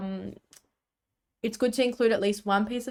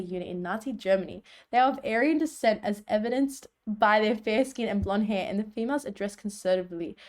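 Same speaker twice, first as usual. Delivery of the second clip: polished sales pitch voice; marketing voice. Shown as a demonstration. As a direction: read it like a confident ad. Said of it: "my marketing voice".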